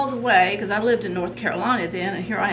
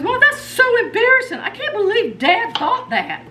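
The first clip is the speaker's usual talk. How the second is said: high voice breaking into laughter; embarrassed laughing; 13 semitones higher, 5 dB louder than usual. Retold or imitated. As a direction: giggle through the mortification. Daughter laughing in embarrassment, imitated.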